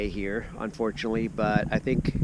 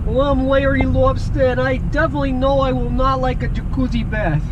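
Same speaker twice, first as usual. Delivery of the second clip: raised, lightly voiced lobster; a silly cartoon lobster, pitched up; Larry Lobster voice; 12 semitones higher than usual. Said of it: "Mister Lobster's voice".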